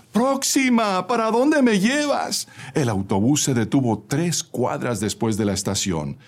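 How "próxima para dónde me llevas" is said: very high-pitched call; shouting. A narrator's reading. Man at the back calling his stop, shouting. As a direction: cry out for the bus to stop. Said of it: "gritaba un señor que venía al fondo".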